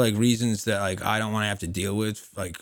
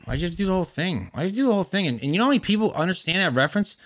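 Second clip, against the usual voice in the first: excited; 9 semitones higher, 7 dB louder than usual. Real, not acted. Defending obscure commercial reference.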